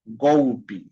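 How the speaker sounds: golpe as "GOU-pi"; final E as I. Shown as a demonstration. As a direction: say golpe with L as u, ending on i. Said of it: "Se pronuncia como I".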